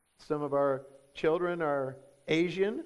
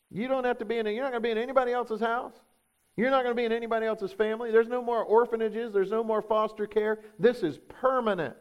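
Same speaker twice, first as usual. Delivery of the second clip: high, quick run of firm promises; emphatic reassurance; 5 semitones higher, faster than usual. Retold or imitated. Father promises adopted children a final home, emphatically reassuring. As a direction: pile up the assurances in a raised, insistent voice.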